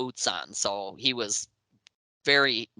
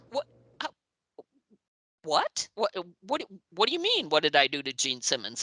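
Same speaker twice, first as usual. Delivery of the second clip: bewildered; 5 semitones higher than usual. Retold or imitated. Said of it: "and I'm thinking".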